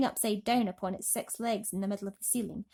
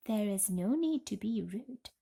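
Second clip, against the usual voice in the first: cold. Acted. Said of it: "she said coldly".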